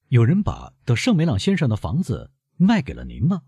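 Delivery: loud question. A narrator's reading. Prosecutor demanding who sold the house, loud and urgent. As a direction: press the count hard, voice rising. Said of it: "维勒夫大声问".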